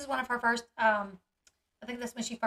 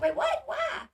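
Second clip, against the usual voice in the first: a sudden, rising "wait, what, why" in disbelief; half-joking disbelief; mock surprise; 14 semitones higher, 3 dB louder, slower than usual. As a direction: play up your confusion at the news. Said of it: "I was like".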